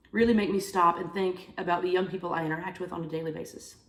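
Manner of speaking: stuffy nose, sniffly voice; sniffling. Real, not acted. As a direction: talk through a blocked nose. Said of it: "Sorry, I'm so sniffly".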